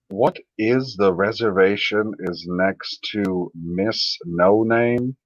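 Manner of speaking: slow, halting read, stress on What; slow puzzled reading. Shown as a demonstration. Slowly rereading a confusing chat message aloud. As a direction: spell the sentence out slowly, puzzled. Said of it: "I'm reading it like an idiot".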